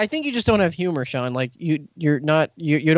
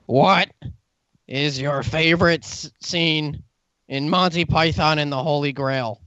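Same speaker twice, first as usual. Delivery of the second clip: troll voice; slower than usual. Pretend. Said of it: "I have to say this in a troll voice".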